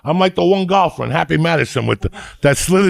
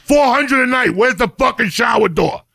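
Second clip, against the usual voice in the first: ranting; 5 semitones higher than usual. Real, not acted. Ranting about hotel shower.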